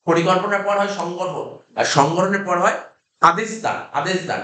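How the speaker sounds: slow and spaced, each word set apart; slow dictation. Shown as a demonstration. Teacher dictates slowly to the class, spacing each word. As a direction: read it out slowly so the students can write it down. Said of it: "একদম পুরো আস্তে আস্তে বলছি".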